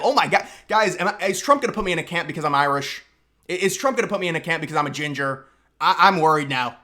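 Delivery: fast, hammed-up fake worry; mock panic. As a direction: pretend to panic about being locked up. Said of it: "this is the reaction I would have".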